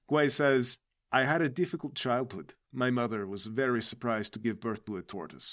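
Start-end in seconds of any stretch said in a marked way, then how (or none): 1.1-5.5 put-on lower, subdued Russian-accented turtle captain. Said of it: "so natively my accent is Russian".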